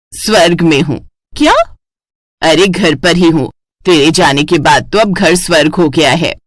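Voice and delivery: lightly voiced mother, teasing.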